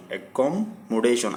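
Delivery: অ্যাকমোডেশন split into slow separate syllables. Shown as a demonstration. Teacher to students, অ্যাকমোডেশন spoken syllable by syllable. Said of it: "আমি syllable ভাগ করে করে বলতেছি".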